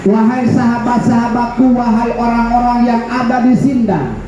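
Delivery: imitated crying out. Preacher acting a man warning everyone around, imitated crying out. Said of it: "orang Yahudi itu sambil teriak-teriak".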